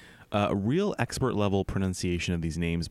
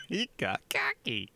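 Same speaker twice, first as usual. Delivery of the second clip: laughing; 8 semitones higher, 4 dB quieter than usual. Real, not acted. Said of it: "Why did my voice do that?".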